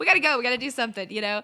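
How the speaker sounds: loud, high pleading outburst; exasperated plea. Retold or imitated. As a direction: beg to leave, laughing through it. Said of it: "And I'm like".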